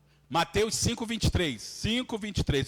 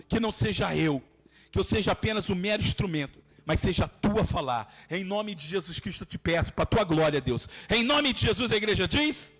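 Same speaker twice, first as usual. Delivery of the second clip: closing prayer. Real, not acted. Prayer winds down to close.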